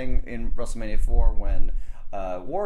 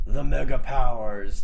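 gravelly voice; 2 semitones higher, 4 dB louder than usual. Retold or imitated. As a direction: growl it like a movie trailer. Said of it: "in his most gravelly voice".

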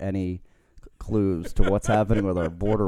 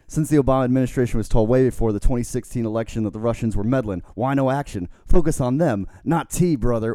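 loud, raised wrestler voice; Hulk Hogan; 4 semitones higher, 4 dB louder than usual. Acted. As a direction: punch it out like a wrestling promo, ending on "brother". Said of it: "I'll try to do it in Hogan's voice".

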